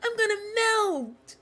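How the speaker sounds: high, slow, wailing mockery of a crybaby; mocking whiny quote. Streamer mocks a character's dramatic complaining, high and whiny. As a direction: whine it out high and drawn like a fake victim. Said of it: "You were like".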